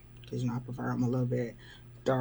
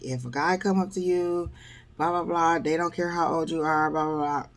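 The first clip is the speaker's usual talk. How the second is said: lecturing, slightly raised pitch and run-on delivery; mock preaching; 3 semitones higher than usual. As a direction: imitate someone preaching at a stranger. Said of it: "now he is preaching to me".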